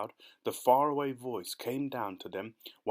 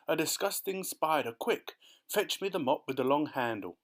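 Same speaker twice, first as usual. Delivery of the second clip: disgusted cry; 4 semitones higher than usual. Acted. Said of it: "she cried".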